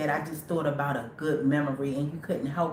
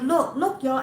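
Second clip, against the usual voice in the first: retold urgent call; 8 semitones higher, 4 dB louder than usual. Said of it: "I was like".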